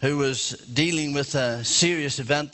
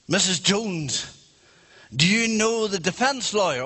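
raised-pitch, taken-aback questioning; shocked lawyer; 7 semitones higher, 4 dB louder than usual. Acted. Shocked solicitor questioning the old woman on the stand, mildly acted. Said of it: "Shocked, the lawyer turned and he says".

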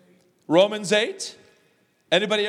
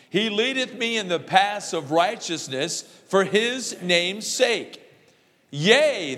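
scripture reading. Acted. Reads the psalm aloud.

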